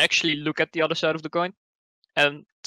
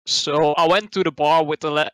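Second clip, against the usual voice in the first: put-on Irish accent. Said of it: "Can't do an Irish accent".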